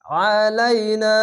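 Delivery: আলাইনা with a thick, throat-squeezed আইন, slow; heavy throat ain. Shown as a demonstration. Teacher modelling the heavy আইন for students. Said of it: "আইনটিকে মোটা করে গলা চিপে পড়বেন".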